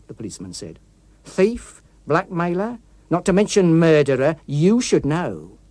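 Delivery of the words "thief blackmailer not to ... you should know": menacing confession. Acted. Policeman reveals himself a murderer.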